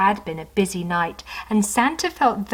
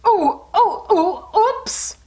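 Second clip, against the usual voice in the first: much higher, louder oh then oops; startled cry; 12 semitones higher, 4 dB louder, much slower than usual. Acted. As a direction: slip on the ice with alarm. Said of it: "cried Santa".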